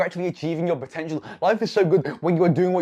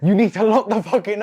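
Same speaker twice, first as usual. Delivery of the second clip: laughing; 4 semitones higher, 5 dB louder than usual. Real, not acted. Laughs mid-rant at whiteboard.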